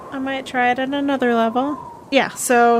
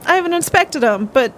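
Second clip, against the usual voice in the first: higher-pitched, upset in-character worry; distressed; 8 semitones higher than usual. Acted. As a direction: fret aloud, pitch climbing as the worry builds. Upset infested character answers a question.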